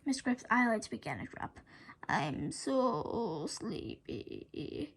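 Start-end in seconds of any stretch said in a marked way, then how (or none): 2.1-4.9 low, soft, very slow mumble; drowsy mumbling, barely awake; mumbled. A narrator's reading. Hypnotized principal drifting off, soft slow mumble. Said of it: "he mumbled".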